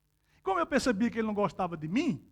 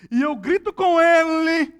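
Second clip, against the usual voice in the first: mild mock yell; 5 semitones higher, 8 dB louder, slower than usual. Retelling shouting at parrot.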